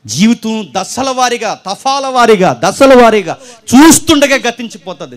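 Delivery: full-force, drawn-out sermon climax; loud slow preaching. Acted. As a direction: hammer each phrase out slowly to the crowd.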